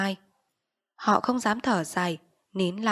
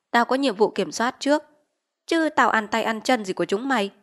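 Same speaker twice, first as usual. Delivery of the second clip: blustering chief; 2 semitones higher, 5 dB louder than usual. Acted. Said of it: "nhưng vẫn làm oai".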